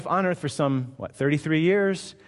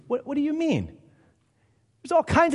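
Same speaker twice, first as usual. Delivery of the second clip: incredulous retort; 10 semitones higher than usual. Real, not acted. Retort to the sceptic.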